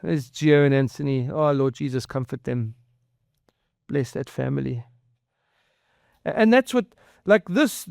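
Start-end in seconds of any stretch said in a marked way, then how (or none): 1.3-4.8 low, hushed plea to God; tender prayer. Real, not acted. Pastor praying comfort for a bereaved family, tender prayer. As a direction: pray gently, letting the pitch sink.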